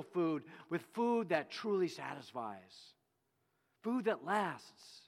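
a teacher's frustrated appeal to the crowd; Jesus pleading with the crowd, a touch frustrated. Retold or imitated. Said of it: "getting really frustrated and said to them".

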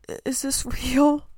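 awed laugh, voice lifting; laughing in disbelief. Real, not acted. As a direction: giggle at how unreal it feels. Awed at her blessings.

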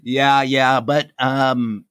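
hoarse from yelling and travel; raspy voice. Real, not acted. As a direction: talk with a scratchy sore throat. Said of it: "I've got a raspy voice today".

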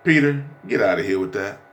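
casual street-talk Jesus, only lightly voiced. Shown as a demonstration. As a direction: say it like on the street corner. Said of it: "Can I, can I say it like I'm on the street?".

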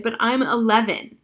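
loud, high indignant yes; shouted. Acted. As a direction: blurt it out in outrage.

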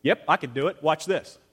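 mock brag of what Daniel didn't say; boastful. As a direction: show off like a braggart. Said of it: "Daniel didn't go".

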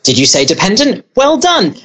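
high-pitched, delighted teacher's praise; imitating praising teacher. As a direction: climb into excited mock praise for a pupil. Acts out teacher praising the child.

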